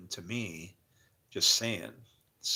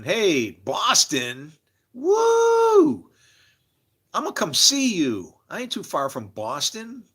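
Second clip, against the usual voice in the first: mock cheer; 8 semitones higher, 7 dB louder, slower than usual. Reading a viewer's cheer aloud.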